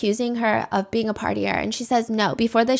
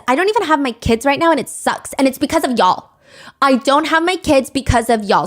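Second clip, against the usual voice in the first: mock whiny complaint; 3 semitones higher, 4 dB louder than usual. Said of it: "And she says".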